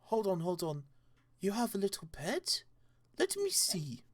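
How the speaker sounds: rising into an excited high coo; doting curiosity. Acted. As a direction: build to an eager squeal. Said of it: "his voice and demeanor suddenly changed".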